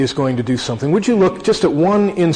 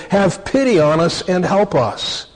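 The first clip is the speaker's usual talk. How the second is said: raised, earnest Bible reading voice; scripture reading. Acted. Preacher reading Mark nine to congregation, earnest and raised. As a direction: read the passage out to the congregation with weight.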